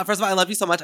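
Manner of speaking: emotional gush. Real, not acted. Emotional gush after screaming.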